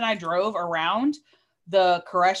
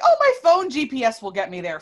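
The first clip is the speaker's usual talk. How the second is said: lightly mocked stuck-up voice, louder; stuck-up person; 3 semitones higher, 5 dB louder than usual. Storyteller mocking her own confidence, lightly stuck-up. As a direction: imitate your snooty past self, a bit louder. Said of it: "stuck up person that was like".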